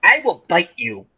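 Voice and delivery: low, slow, quiet start, then deliberate; understated mock menace; talking horse threat. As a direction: imitate a horse calmly warning its rider. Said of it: "again, he says".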